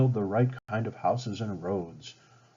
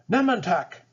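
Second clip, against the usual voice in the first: much higher, louder anguished call of a name; a higher, urgent shout of the friend's name; crying out; 10 semitones higher, 4 dB louder than usual. Acted. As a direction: cry out to a fallen friend. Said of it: "Kukum cried".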